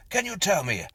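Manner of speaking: calling out. A narrator's reading. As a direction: call out across the path. Narrator calls out to stranger.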